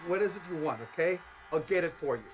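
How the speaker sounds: urgent bargaining. Acted. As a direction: bargain urgently with someone threatening you. Husband bargains with the threatening outlaw.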